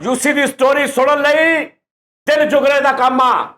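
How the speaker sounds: slow, stretched announcement; showman's build-up. Acted. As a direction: draw it out to build suspense. (ਖਿੱਚ ਕੇ ਐਲਾਨ ਕਰਨਾ)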